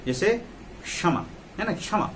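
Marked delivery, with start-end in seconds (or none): 0.8-1.2 क्षमा opening on a quick k-sh cluster; word-initial conjunct demo. Shown as a demonstration. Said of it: "अगर शुरू में ये आ रहा है". 1.7-2.1 क्षमा with the opening क्ष as one joined sound; word-initial conjunct demo. Shown as a demonstration. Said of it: "अगर शुरू में ये आ रहा है".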